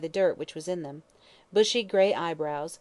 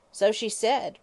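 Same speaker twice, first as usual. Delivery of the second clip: higher, louder coarse hag's voice; drunken old hag; 4 semitones higher, 4 dB louder, slower than usual. Acted. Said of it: "retorted Mother Guttersnipe".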